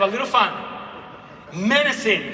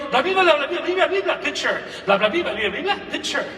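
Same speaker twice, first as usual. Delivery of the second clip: put-on kids' blah; 4 semitones higher than usual. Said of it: "Kids are going".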